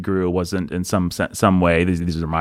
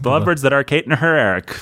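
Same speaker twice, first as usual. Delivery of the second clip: "The Lovebirds that are Kate and her Eric" said fast in one go; quick run-through; 3 semitones higher, faster than usual. Shown as a demonstration. Host trying the completed verse, quick run-through. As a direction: rattle off the finished line.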